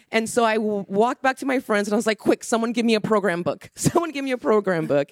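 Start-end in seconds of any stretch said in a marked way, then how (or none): 2.2-5.1 higher-pitched, acted-out urgency; re-enacting a mild scramble for help; retold urgent request. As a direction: call to friends for help, pitched up. Retells urgent call to friends.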